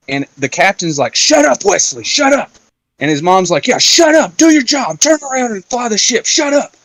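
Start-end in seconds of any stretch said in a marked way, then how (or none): 1.1-2.5 high mocking voice, much higher; squeaky dismissive shut up, pitched way up; mocking the captain. Captain telling Wesley to shut up, in a high mocking squeak. 3.7-6.7 high mocking nagging voice; mocking the mom. Wesley's mom telling him to fly the ship, high mocking voice.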